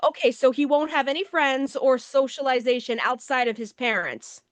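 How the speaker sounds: dry sarcasm. Acted. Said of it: "And I'm like".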